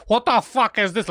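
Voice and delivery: slow, drawn-out outraged mock yell. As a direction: parody her scream at the kid. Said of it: "But the way he said".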